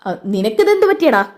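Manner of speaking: lightly voiced old father, puzzled; father wondering what's wrong with his son. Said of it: "അങ്ങോട്ട് അച്ഛൻ വരുന്നത്".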